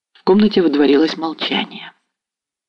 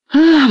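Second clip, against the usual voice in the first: sharp, high, louder sighing "ah"; 6 dB louder than usual. A narrator's reading. Ostap sighing over his bride, high loud sigh. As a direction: let out a longing high sigh. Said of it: "вздохнул Остап".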